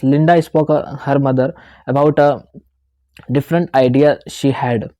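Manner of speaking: slow, deliberate reading of the example; slow demonstration reading; slow read-aloud. Shown as a demonstration. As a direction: read it out word by word, slowly. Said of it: "Read the previous sentence aloud".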